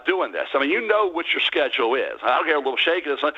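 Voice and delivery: normal talking voice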